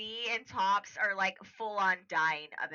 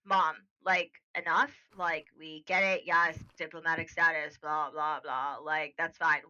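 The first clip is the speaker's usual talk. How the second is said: blunt, non-diplomatic; 4 semitones lower than usual. Acted. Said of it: "he does not speak this way normally".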